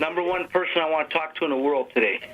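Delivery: distant speakerphone voice; talking away from the phone; phone held away. Real, not acted. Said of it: "talk a little louder or talk into the phone".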